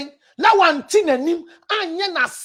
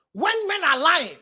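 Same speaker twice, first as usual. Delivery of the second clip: slowed, softer restatement, landing on "when"; slower repeat; 4 dB quieter than usual. Shown as a demonstration. Preacher to women, repeating for weight, slower and softer. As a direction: repeat it slowly and quieter, leaning on "when". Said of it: "Well, when men are lying".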